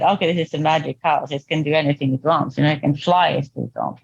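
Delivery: quick, low, offhand toss-off; breezy and fast, imitating an earlier glib remark; flippant. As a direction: rattle it off from the top of your head. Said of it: "the flippant was more my".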